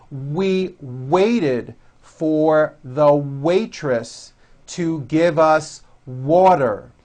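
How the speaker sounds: slow, deliberate W practice lines; slow drill. Shown as a demonstration. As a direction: read slowly for learners to repeat.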